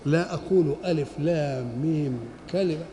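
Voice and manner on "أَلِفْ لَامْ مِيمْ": ألف لام ميم in one run, bare endings without -un; letters as one word. Shown as a demonstration. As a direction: recite ألف لام ميم as a single unit, vowelless endings. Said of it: "ولكن إيه".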